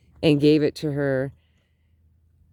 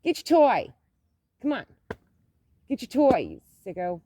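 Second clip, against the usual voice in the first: higher coaxing voice for the dog; high dog-talk; 7 semitones higher, faster than usual. Real, not acted. Vlogger coaxing her dog to fetch its toy, high and teasing.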